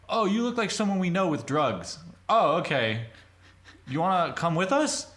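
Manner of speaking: high, loud, over-eager mock voice; imitated sketchy kids. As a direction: play the kids pitching an invitation. Acting out sketchy kids' approach.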